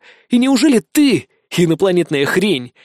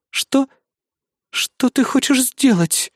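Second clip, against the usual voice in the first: higher, slow, alarmed asking; frightened question; 10 semitones higher, slower than usual. Acted. Controller asks the hero's plan, frightened. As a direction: sound caught off guard and scared. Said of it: "Испуганно спросила контролёрша".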